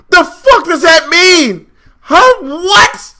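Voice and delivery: high-pitched disbelief; real exasperated outburst; incredulous outrage. Real, not acted. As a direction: demand an explanation, voice shooting up. Incredulous at Coach's tweet.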